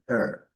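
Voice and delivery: "R" said as a rhotic American R; American "R" demo. Shown as a demonstration. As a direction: sound the R in American English. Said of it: "E no inglês americano".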